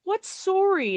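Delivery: high-pitched puzzled cartoon kid; imitated innocent boy's question; Butters imitation. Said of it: "And he goes".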